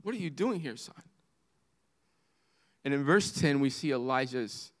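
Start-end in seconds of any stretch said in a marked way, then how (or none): 0.0-1.0 soft, hurt question; devastated father. Acted. Father to his son in the wrong place, quietly devastated. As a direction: drop to a quiet, aching ask. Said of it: "Can you hear the devastation in the father's voice".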